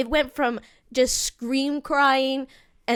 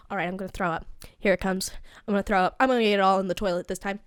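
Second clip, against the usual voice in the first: low-key pep talk, pitched down; muttered self-coaching, lower than usual; hyping oneself up; 4 semitones lower, much faster than usual. Retold or imitated. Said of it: "I'm, like, hyping up for it".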